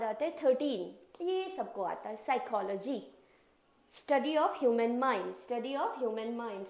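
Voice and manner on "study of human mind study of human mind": very slow, word by word; slow dictation. Shown as a demonstration. Teacher slowly dictating the meaning to students. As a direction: dictate each word so they can write. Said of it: "dictating the meaning".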